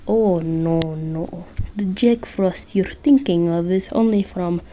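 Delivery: lightly done Russian Santa; bad Russian accent. Santa telling Listener about the nice list, bad Russian accent. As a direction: attempt a Russian accent, half-successfully. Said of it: "I'm terrible at doing a Russian accent".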